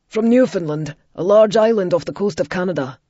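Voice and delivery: a hint of Ian's eager explanation; Ian explaining. A narrator's reading. Ian tells Violet where the accent is from, lightly voiced.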